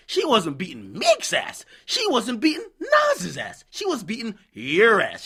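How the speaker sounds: high, slow rant with shouted "Nas's"; real exasperated yell. Real, not acted. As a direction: stretch it out, raising the voice. Ranting about Safari.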